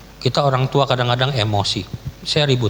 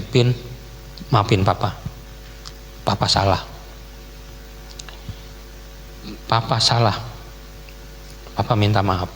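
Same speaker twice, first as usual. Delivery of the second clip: retold apology; 3 semitones lower, 6 dB quieter than usual. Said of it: "Saya minta maaf sama dia".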